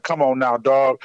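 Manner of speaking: low, unhurried warning; low-voiced bouncer's caution; imposing bouncer. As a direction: say it low, like a big man stepping in. Big security men confronting him.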